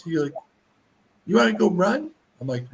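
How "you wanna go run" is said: put-on toddler asking. Toddler quoted.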